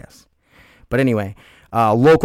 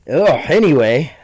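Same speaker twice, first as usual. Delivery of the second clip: laughing; 6 semitones higher, 4 dB louder than usual. Real, not acted. Laughing off sneezes.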